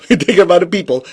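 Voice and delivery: quick, laughing repeat of take care of other people; chuckling as you rush it out. Shown as a demonstration.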